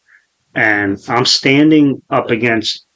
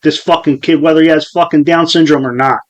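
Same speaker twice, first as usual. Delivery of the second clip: raised, indignant voice; retold loud rant; 4 semitones higher, 3 dB louder than usual. Retelling his outburst at the kid's people, loud and indignant. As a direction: rant so the bystanders hear, pitched up a little. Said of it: "I fucking said really loud, loudly".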